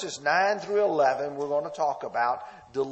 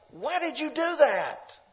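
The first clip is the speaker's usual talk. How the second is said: confrontational; 9 semitones higher than usual. Retold or imitated. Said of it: "It's confrontational".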